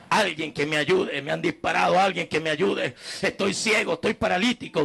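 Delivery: yelling out the car window for help; shouting for help. Retold or imitated. (gritos desesperados pidiendo auxilio)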